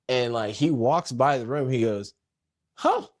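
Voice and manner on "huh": high, loud, stammering disbelief; astonished dad. Retold or imitated. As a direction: imitate a father caught totally off guard. Dad startled to find son home.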